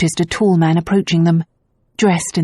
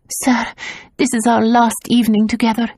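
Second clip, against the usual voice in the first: put-on much higher pleading girl voice; breathless plea; 6 semitones higher than usual. A narrator's reading. Tazia faking dismay to the gendarme, higher pleading. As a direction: plead with feigned distress.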